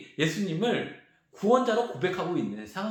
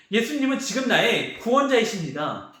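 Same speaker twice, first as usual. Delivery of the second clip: raised, emphatic declaration; earnest confession; 5 semitones higher, 3 dB louder than usual. Acted. Bartimaeus professes Jesus as saviour, earnest confession. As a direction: declare it with conviction, pitch lifted. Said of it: "이런 고백을 하는 거거든요".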